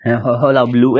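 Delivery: hulla-baloo said as one smooth word, long final oo on बलू; pronunciation demo. Shown as a demonstration. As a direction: model हल्ला बलू with a drawn-out final oo. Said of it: "इसका pronunciation मैं आपको बता दूं".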